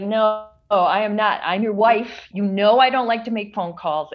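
mildly indignant retold comeback; retold argument. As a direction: re-enact putting your foot down. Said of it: "almost a whisper fight".

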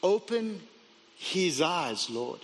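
quiet, low prayer, sinking at the end; hushed plea to God, with pauses; praying. A narrator's reading. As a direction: pray it softly and unhurriedly. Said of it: "Elisha prayed".

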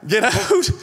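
high, rising mock disbelief; incredulous echo. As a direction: throw it back as a stunned question. Stunned echo of the boatman's order.

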